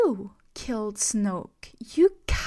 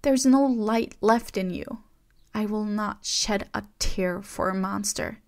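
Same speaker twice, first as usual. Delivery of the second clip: trembling angry outburst; 3 semitones higher, 6 dB louder than usual. A narrator's reading. Rey accusing Kylo of betrayal, shouting with a trembling voice. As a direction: hurl every word at him, shaking. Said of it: "Her voice trembled".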